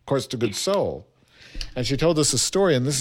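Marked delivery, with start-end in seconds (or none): 0.0-1.0 imitated New York "Course to goods sold"; thick New York accent. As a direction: repeat it like a New York teacher. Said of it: "had such a thick New York accent".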